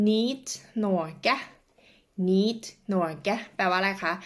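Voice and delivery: Niet Norge said slowly with Norwegian sounds; Norwegian phrase demo. Shown as a demonstration. Teacher modelling the phrase Niet Norge for viewers. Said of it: "ศัพท์คำต่อมา".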